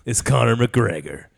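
slow, gruff truck ad read; mock truck commercial narrator. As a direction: sell a pickup like a tough-guy ad. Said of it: "a truck commercial".

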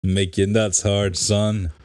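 slow, put-on Boston accent. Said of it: "That's my Boston accent".

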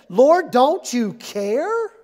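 slow, drawn-out indignant Lord; exasperated plea. Retold or imitated. Martha complains to Jesus, slow and indignant. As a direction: stretch the complaint out wearily. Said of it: "the first thing she says is this".

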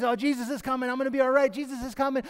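hopeful. Retold or imitated. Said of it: "his hope is there and it's vibrant".

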